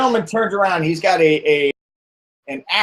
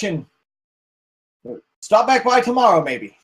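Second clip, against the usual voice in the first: lightly voiced villager, overly friendly; polite but hiding something; 3 semitones higher than usual. Villager politely sending the stranger off, lightly voiced.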